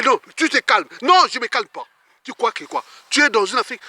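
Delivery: plus haut et plus fort, agacé; dispute rejouée. Retold or imitated. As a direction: refuse de se calmer. Dispute rejouée avec la policière. (il refuse de se calmer devant la commandante, ton énervé)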